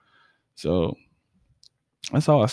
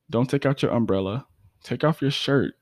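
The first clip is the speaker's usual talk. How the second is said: spoken word line, deliberate; poem recital; 2 semitones higher than usual. Acted. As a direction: deliver it as poetry, measured.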